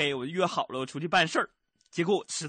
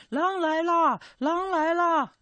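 softer shout; much slower than usual. Retold or imitated. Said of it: "我小点声喊啊".

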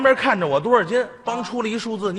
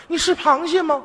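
mock angry retort; 8 semitones higher than usual. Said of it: "他媳妇儿也急了".

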